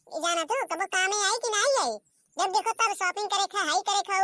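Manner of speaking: mock anger. Mother-in-law scolding spendthrift daughter-in-law, mock anger. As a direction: snap back like a fed-up saas.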